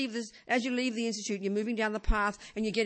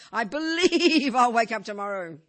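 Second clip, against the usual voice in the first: louder, slow and firmly certain; confident declaration; 2 semitones higher, 7 dB louder than usual. Retold or imitated. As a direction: say it like an unshakable conviction. Voicing our firm belief.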